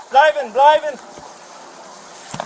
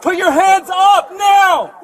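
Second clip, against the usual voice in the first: shouting commands. Real, not acted. Officer yelling at suspect.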